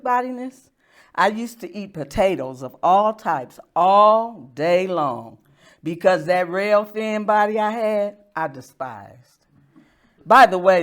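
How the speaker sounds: wry spoken-word delivery, punched phrases and dropped endings; humorous poetry reading. Acted. Poet telling an audience about body image, wry poetry reading. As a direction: perform the poem, pausing before each punchline.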